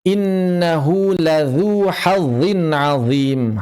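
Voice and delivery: very slow "ladzu hazzin azim", each z-sound distinct; thin "ladzu", heavy "hazzin azim"; distinct dhal and zha. Shown as a demonstration. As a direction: draw out every syllable, contrasting light "dzu" with dark "azim". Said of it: "Harus jelas mana yang zal".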